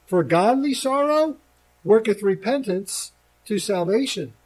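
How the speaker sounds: slow, measured King James reading; scripture reading. Acted. Preacher reading the text to his congregation, measured. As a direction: read the verses out with weight.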